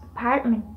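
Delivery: "apartment" stressed on PART; syllable stress. Shown as a demonstration. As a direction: lean on the second syllable, "a-PART-ment". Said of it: "stress syllable is pronounced".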